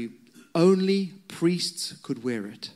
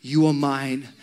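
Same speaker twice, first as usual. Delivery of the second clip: raised, firm declaration; the Father's shout; 4 dB louder than usual. Acted. The Father calling to your heart, mildly shouted declaration. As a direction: proclaim it with urgent conviction. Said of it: "it's shouting this".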